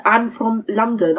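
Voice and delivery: slow, deliberate restating; slowed-down, insistent retelling; retold insistence. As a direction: spell it out slowly for someone who won't accept it. Repeats answer after being disbelieved.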